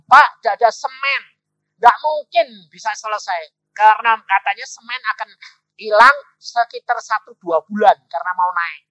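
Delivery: loud, high-pitched alarmed report; urgent report. Retold or imitated. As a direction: break bad news at full volume. Builder's urgent report retold.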